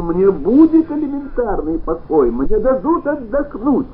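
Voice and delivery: put-on man shrieking at the old grandfather. A narrator's reading. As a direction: screech it, nerves shot. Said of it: "завизжал".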